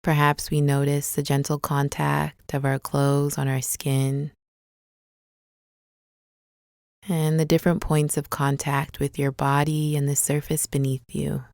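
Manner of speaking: calm, unhurried meditation guide with long pauses; guided meditation. Acted. Guide leading listeners through a body scan, calm guided meditation. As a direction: ease them gently into the body, leaving space between phrases.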